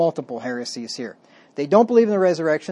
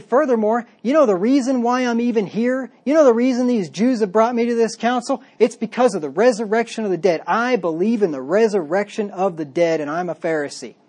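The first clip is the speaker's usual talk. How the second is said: Paul pleading; 5 semitones higher than usual. Retold or imitated. Paul defends himself before the council, insistent and raised. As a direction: press the point hard to the council. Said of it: "And he said".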